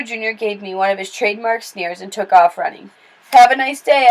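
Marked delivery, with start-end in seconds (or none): 3.3-4.1 louder, higher call. Acted. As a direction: call it after him down the road. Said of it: "I called".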